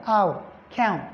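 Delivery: "ow" then "count", gliding the OW diphthong. Shown as a demonstration. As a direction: stretch the glide in "ow". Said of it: "count is a diphthong".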